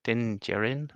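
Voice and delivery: "Din Djarin" with "Djarin" like "JERR-in", rising at the end; questioning pronunciation. Real, not acted. Host unsure after being teased, questioning "Djarin" as "jerr-in". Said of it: "liberties with the pronunciation there".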